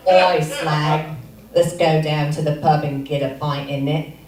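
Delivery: put-on lightly done cockney British accent. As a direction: bark it like a London lad at the pub. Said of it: "more like a rock singer".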